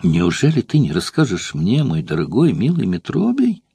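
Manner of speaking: a touch of sweet wheedling; mild coaxing plea. Acted. Courtesan pleading with the old actor, lightly coaxing. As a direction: coax him gently, asking nicely. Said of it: "упрашивала Эфтибида".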